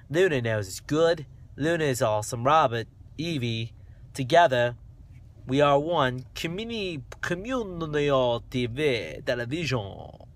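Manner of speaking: wandering mock-Australian; playful, loose Australian accent; dodgy Australian accent. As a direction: carry on in a badly faked Aussie accent. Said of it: "I might be doing an Australian accent".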